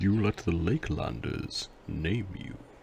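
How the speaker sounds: smooth, soft, velvety voice. A character replies to a visiting artist in a velvety voice. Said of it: "he says with his velvety voice".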